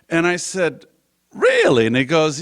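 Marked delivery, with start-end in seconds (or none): 1.3-1.9 high, loud disbelieving really; surprised. Retold or imitated. Hearing a stranger once ran for governor, surprised. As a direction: jump up in pitch as if stunned.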